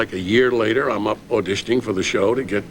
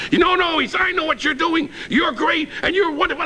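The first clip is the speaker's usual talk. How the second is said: Johnny near tears. Retold or imitated. Sidekick retells boss praising him, high teary choked voice. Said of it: "He's in near tears".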